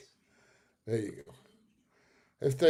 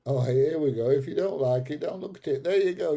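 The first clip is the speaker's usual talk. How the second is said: louder, higher comeback to a heckler; riled retort; 4 semitones higher, 5 dB louder than usual. Real, not acted. Streamer answering a troll who dislikes the show, riled. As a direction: fire it back at the troll.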